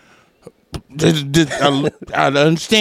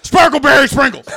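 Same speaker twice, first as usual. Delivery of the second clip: high, loud, sing-song sweet talk; sugary dog-praise voice; 12 semitones higher, 4 dB louder than usual. Retold or imitated. Mocking the sweet tone you should use with dogs. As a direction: gush at the dog like it's a treat. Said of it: "change your tone of your voice".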